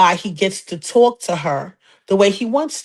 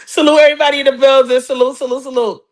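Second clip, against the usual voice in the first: hype shout-out; 3 semitones higher, 3 dB louder, faster than usual. Real, not acted. Shout-out to the audience.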